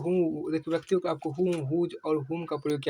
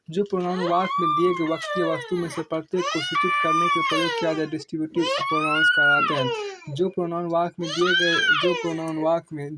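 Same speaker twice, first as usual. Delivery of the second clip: raised voice; 4 dB louder than usual. Real, not acted. Raised voice over noise.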